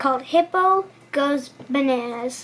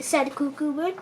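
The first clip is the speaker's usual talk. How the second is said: ordinary delivery, nothing marked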